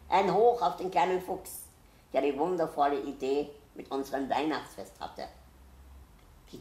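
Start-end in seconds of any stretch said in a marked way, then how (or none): 0.1-5.3 loud, higher, ceremonious cheer; festive toast. A narrator's reading. Owl toasts the little fox before all animals, loud festive cheer. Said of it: "sagt Frau Eule feierlich".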